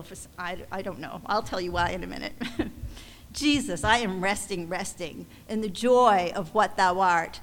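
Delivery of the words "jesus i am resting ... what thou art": measured, heartfelt hymn reading; hymn recitation. Real, not acted. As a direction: read the verse aloud with gentle emphasis. Reads a hymn aloud.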